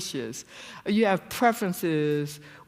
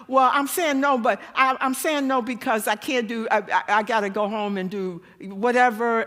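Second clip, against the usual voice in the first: flustered over-explainer; 6 semitones higher, 6 dB louder than usual. Retold or imitated. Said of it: "this big, long explanation".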